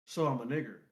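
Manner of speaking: "nigger" with a hard final R; low retold line, hard R on "nigger"; hard-R quote. Retelling the comedian's line to a friend, hard R on "nigger". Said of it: "humor in the hard E R".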